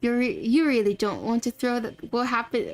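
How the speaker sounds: ominous host in amateur British English; terrible British accent. Acted. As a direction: stumble through a put-on British accent. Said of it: "I can't read with a British accent".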